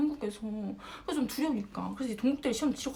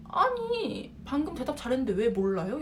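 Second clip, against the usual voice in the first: retold incredulous challenge. Professor pressing a student who failed to answer, incredulous. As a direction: imitate a baffled professor, voice leaping up first.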